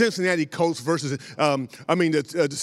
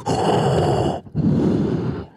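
heavy breathing; 3 dB louder than usual. Retold or imitated. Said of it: "hear the sound like".

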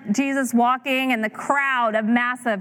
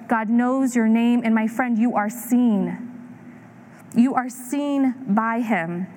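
slow, tender reassurance; slower than usual. Real, not acted. Preacher speaks to a newcomer.

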